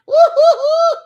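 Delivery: high, loud hooting cackle; mocking kids' laughter. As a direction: laugh it up like unimpressed children. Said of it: "And the kids".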